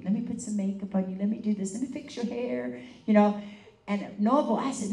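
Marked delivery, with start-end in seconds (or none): 0.0-2.8 a light, quick mock of a fussy lady doting; lightly voiced primping lady, a bit fast; fussy foo-foo lady. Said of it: "a real foo-foo lady".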